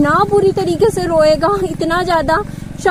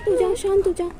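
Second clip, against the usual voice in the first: soothing calm-down; 2 semitones higher, 3 dB quieter than usual. Real, not acted. Mother calming crying son.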